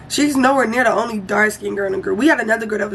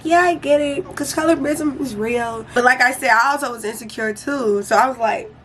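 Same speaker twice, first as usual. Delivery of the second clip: supportive; 2 semitones higher than usual. Retold or imitated. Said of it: "I was being supportive".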